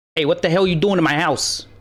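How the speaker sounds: bird voice with put-on Brooklyn accent. Voicing a bird that catches the party in its house: brooklyn accent bird voice. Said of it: "he's from Brooklyn".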